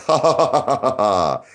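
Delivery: mock laughter, spelt-out ha-ha; hammed-up fake laugh; Gary Gensler. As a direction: imitate someone laughing at a plea. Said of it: "Gary Gensler was laughing".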